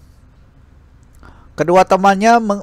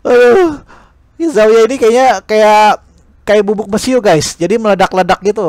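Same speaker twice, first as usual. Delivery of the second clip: louder, higher chatty comment; excited aside; 4 semitones higher, 4 dB louder than usual. Real, not acted. Reader telling viewers about hot-headed Zhao Ye, excited. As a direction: react to the story.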